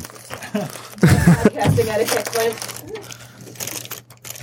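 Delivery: slow, drawn-out tut-tut; mock scolding. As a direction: scold him slowly for the crunching. Mock scolding about chip noise.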